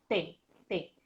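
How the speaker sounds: T, T made with tongue on teeth; crisp tongue-tip T; T sound. Shown as a demonstration. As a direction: demo a crisp T twice. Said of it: "se hace con la lengua y los dientes".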